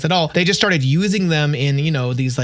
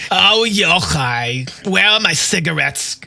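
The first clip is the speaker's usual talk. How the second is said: loud, raised, demanding Jewish grandma voice; Jewish grandmother; 3 semitones higher, 3 dB louder than usual. Shown as a demonstration. Game master previews a grandma character on request, loud Jewish grandmother voice. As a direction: play a bossy Jewish grandma calling out. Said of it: "like, Jewish grandma preview?".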